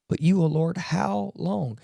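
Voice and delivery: David begging God, retold as an anguished cry; pleading cry. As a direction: cry the question out like a desperate plea. Voicing David's plea to God.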